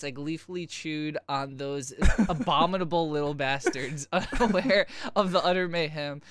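giggling through the words; reading while cracking up; laughing. Real, not acted.

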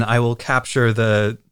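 lightly hammed-up evil villain; a hint of sinister villain gloating; mustache twirling villain. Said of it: "mustache-twirling, sinister, evil villain".

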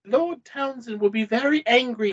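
lightly voiced English lady; one female voice. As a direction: put on the stock female voice. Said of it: "I can only do one female voice".

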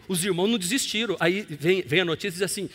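normal talking voice

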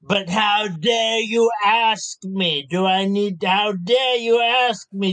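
slow, mock indignation; indignant bluff. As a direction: act affronted to bluff your way through. Player bluffs indignation at minion.

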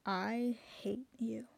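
slow teasing I hate you; mock devil reply. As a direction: drawl it out like a cheeky devil. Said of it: "Devil angel thing going?".

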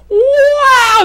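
very high, loud wow; awestruck wow. Acted. Reenacting himself gawking at the city, amazed shout. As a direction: shout it long and high in wonder. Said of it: "imagine me one second going".

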